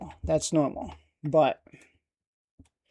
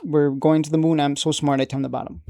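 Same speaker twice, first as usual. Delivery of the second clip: mock excited investor. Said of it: "they get excited 'cause".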